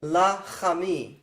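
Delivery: la chami drawn out slowly with an A after the ch; alternative pronunciation. Shown as a demonstration. Teacher showing the alternative la chami, slow demonstration. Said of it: "we see this alternative pronunciation".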